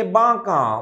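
বাঁকা with the first aa said through the nose; nasal pronunciation. Shown as a demonstration. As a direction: demonstrate the nasalised vowel in বাঁকা. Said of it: "নাক দিয়ে উচ্চারণ করতে হবে".

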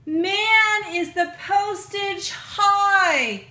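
exaggerated exclamation. Real, not acted. Complaining about postage cost.

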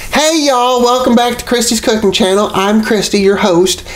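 bright, high YouTube host greeting; cheery cooking show opener; host intro voice. Acted.

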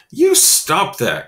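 loud, slow protest; boy yelling at a bully; cried out. Acted. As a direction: shout it to make him stop. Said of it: "cried Jeremy".

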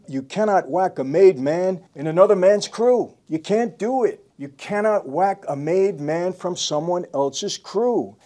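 lightly voiced mob boss scolding John; stern scolding. Retelling the boss warning Gotti about rules, stern. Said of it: "He said".

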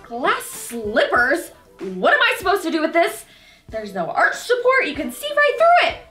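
scorn the gift like a villain; scornful. Acted. Spoiled villain scorning gifts.

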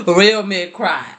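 slow emphatic "real men cry"; stress on real. Real, not acted. Reader repeating to viewers, slow stress on "real".

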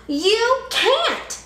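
high loud bully holler. A narrator's reading. Sammy hollers at Kevin, bully holler. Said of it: "Sammy hollered".

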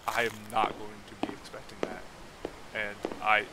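hushed whisper to himself; tense quiet whisper. Real, not acted. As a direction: whisper it as if something could hear. Whispers to himself while exploring.

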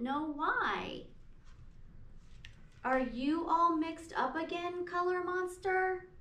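gentle storybook read-aloud; reading to children. Acted. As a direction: read it to a class of little kids. Teacher reads picture book aloud.

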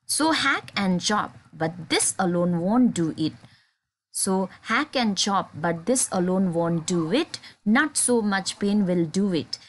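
measured, deliberate reading of verse lines; poem recitation. Acted. Teacher recites poem stanza.

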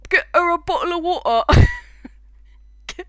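mock heroic shout about water; excited shout. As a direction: yell it like a rallying cry. Shouting Undyne's water line.

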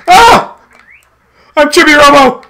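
high, loud little robot cries; panicky little robot. Pretend. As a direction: squeal for help like a tiny robot. Voicing Chibi Robo in peril.

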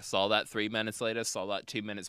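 matter-of-fact imitation of the pilot; full confidence. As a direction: rattle off the facts without any doubt. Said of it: "just, like, full confidence".

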